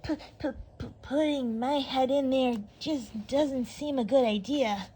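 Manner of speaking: put-on stammering, scared boy; trembling in fear. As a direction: stutter the start, frightened. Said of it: "trembling in fear".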